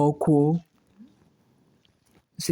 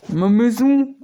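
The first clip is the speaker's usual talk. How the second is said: shocked cry; 9 semitones higher, 8 dB louder, slower than usual. Acted. Shocked at ruined house.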